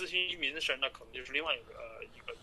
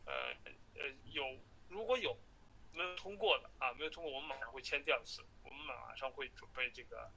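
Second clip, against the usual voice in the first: phone call; 3 dB quieter than usual. Real, not acted. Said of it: "下一个录音是我在最后跟他通话的时候".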